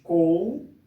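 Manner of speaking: "Coureiro" broken into slow, separate syllables; "Coureiro" spelled out slowly in chunks; pausing between syllables. Shown as a demonstration. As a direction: say "Coureiro" syllable by syllable with long pauses. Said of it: "É só falar a palavra pausadamente".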